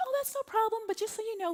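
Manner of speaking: high, breezy service voice; mimicking an upbeat clerk; rental agent. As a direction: chirp it like a phone agent.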